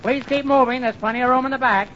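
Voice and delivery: high bus-driver call; imitated yelling. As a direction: call it out like a woman bus driver herding passengers. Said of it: "she kept yelling".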